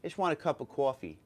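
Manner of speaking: a touch of New York accent. Shown as a demonstration. Vlogger demonstrating his own accent to viewers, New York accent. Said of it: "my New York accent comes out".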